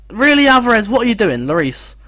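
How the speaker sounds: high, loud disbelief; incredulous yell at the player; shocked outburst. Real, not acted.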